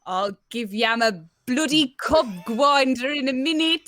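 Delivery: learner's attempt at Black Country; Black Country accent. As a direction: copy the Black Country phrase. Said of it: "some more Black Country phrases".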